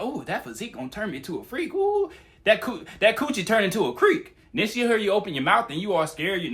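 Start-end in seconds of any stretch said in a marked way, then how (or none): 0.0-4.4 mock flirty woman. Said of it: "she might be into you, like".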